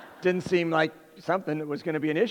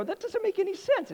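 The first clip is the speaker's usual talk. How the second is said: exasperated. Retold or imitated. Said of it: "I go".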